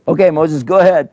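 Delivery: a smug magician waving Moses on; magician's mock-polite invitation.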